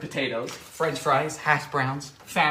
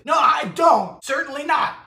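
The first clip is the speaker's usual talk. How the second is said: indignant retort; 7 semitones higher than usual. Pretend. Answering the recipe's claim, a higher mock indignant retort. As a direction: snap back in mock offence.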